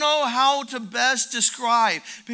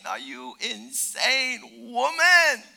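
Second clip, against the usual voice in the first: shouted testimony, much louder, slow; husbands shouting back; 3 semitones higher, 12 dB louder than usual. Retold or imitated. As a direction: roar it out like a freed man.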